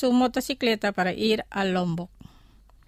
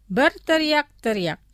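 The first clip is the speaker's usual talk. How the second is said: careful, measured model phrase; slow pronunciation; 3 semitones higher, 3 dB louder than usual. Shown as a demonstration. Teacher models vocabulary for listeners to repeat, slowly. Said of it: "Los pronunciaré lentamente".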